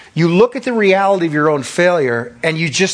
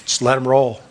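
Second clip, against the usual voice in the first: gleeful devil; 4 semitones higher, 3 dB louder than usual. Retold or imitated. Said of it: "He's like".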